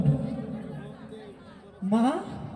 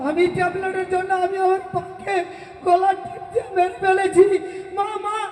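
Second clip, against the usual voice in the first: grief-stricken wailing. Acted. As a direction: cry over her, voice rising to a wail on কথা কও মা. Son finds mother dead, wails. (কান্নাভেজা বিলাপ)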